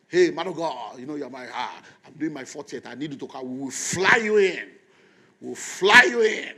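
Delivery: hammed-up excited friend inviting his pastor; excited invite. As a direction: gush over the invite like a big shot.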